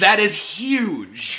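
slow, big booming voice; booming echo. Acted. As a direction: drag it out, huge and loud. Echoed back in big voice.

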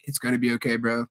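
put-on calm a scared kid inside; reassuring younger self. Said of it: "tapped on my own shoulder and be like".

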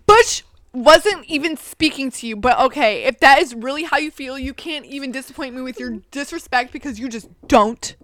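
loud, dramatic telling-off with pauses; acted-out Jordan. Friend rebuking Boulder over disrespect, acted with heavy emphasis. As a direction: act out the scolding text, name punched out. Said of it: "acting it out".

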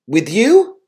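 rising, astonished questions; bewildered. Retold or imitated. Preacher retelling his vision, asking Jesus in bewildered surprise. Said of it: "I asked, bewildered".

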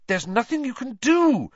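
high, loud, distressed outburst; stricken. A narrator's reading. Hermione pleading with Harry to let it go, stricken. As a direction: cry out helplessly. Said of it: "looking stricken".

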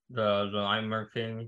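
mumbling around a cough drop; mouth full. Real, not acted. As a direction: talk with candy in mouth. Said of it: "You mumbled".

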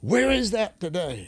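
high, slow, wistful question; quoted awed lament. Retold or imitated. Retold old man marveling at healings.

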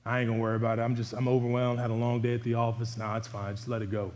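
preacher mimics a tired father brushing off discipline, mock weary; lazy tired parent. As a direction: act out a worn-out parent waving it all off. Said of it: "Like, don't say".

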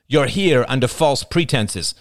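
indignant, deliberate growl; growled accusation. A narrator's reading. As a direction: accuse with slow, angry weight. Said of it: "growled Oliver".

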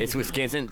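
mock the corrected Wisconsin; mimicked pronunciation. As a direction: repeat it high with a falling end, Wisconsin as "Wis-CAN-sin". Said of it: "I need to make a correction".

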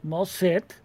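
a hint of a miffed gnome; Monty tells the party she needs nothing; lightly voiced gnome. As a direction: pull back, a touch offended.

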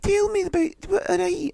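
very high chat-show host parody; hammed-up high-pitched TV host; Lorraine Kelly. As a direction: interview in a squeaky mock presenter voice. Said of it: "and then you wake up".

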